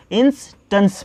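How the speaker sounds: इंस्टेंस split into 'ins' and 'tuns'; demonstrated reading. Shown as a demonstration. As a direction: say इंस्टेंस in two chunks, short final vowel. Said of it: "इसको क्या पढ़ेंगे?".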